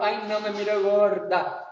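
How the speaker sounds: a lightly put-on fussy voice; a hint of a coy sister; mock self-deprecating woman. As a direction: brush off the compliment. Woman dismissing a compliment.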